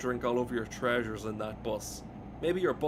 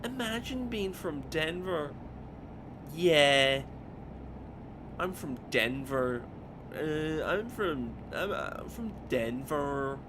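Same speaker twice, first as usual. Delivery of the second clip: slow, higher mock Dublin mothers' voice; mocking Dublin accent; 4 semitones higher, slower than usual. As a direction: ape two Dublin mothers doing a bad accent. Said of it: "Trying to do, like, an accent".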